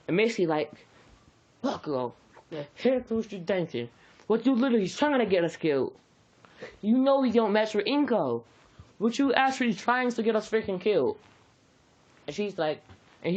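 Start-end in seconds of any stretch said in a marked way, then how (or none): 1.6-11.2 higher, fast exasperated scolding; higher, quick mom scolding. Acted. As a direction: chew him out in a rush. Missy scolding Bakugo in story.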